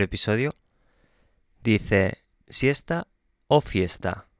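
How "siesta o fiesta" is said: "¿siesta o fiesta?" asked as a lifted question; modelling the question tone; question intonation. Shown as a demonstration. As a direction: read it as a real question. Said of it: "Es una pregunta".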